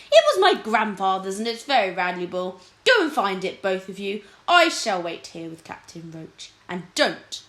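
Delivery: loud, imperious command; a haughty king sending his lords off; stern king's order. Acted. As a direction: lay down the law to them.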